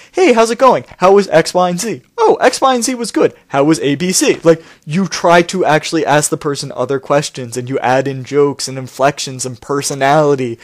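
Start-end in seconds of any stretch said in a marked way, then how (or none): 0.1-4.4 mock casual chat. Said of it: "more along the lines of".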